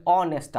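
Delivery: ऑनेस्ट opening on an aw vowel, h silent; spoken pronunciation. Shown as a demonstration. Teacher showing how it is spoken, ऑनेस्ट with silent h. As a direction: say ऑनेस्ट without any h sound. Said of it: "लेकिन बोलने में".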